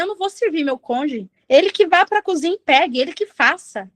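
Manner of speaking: mild mock anger of a wife at her husband; mock angry spouse. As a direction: imitate a fed-up wife refusing to serve. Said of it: "tá bravo com o seu cônjuge e você fala".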